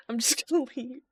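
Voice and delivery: a laughing whisper to no one. Real, not acted. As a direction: whisper it through a giggle. Sneaking away, laughing.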